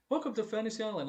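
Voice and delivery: light imitation of a Mexican accent; mock Mexican accent. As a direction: toss off the greeting with a faint Mexican accent. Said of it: "she has this accent".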